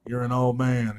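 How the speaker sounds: lightly voiced jab, mock taunt; mock trash talk. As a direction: toss it out like a schoolyard taunt. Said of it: "talking trash".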